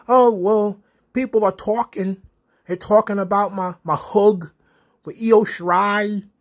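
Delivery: half-hearted Australian accent impression, lightly done; attempted Australian accent. Recapping Rhea Ripley's promo about hugging Io Shirai, in a faltering Australian accent. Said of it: "I can't do an Australian accent".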